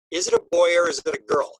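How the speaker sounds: puzzled question. Retold or imitated. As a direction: wonder aloud at a figure you can't quite make out. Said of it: "I remember I said to myself".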